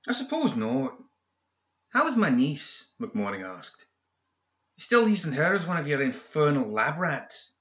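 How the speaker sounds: high, snide villain. A narrator's reading. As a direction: poke at him spitefully. McMorning voiced higher.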